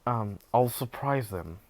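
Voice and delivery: low, softening tail-off; voice dropping deep. Real, not acted. Storyteller losing energy while retelling, voice dropping deep. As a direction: let the voice sink deep and quiet. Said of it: "my voice just went that deep".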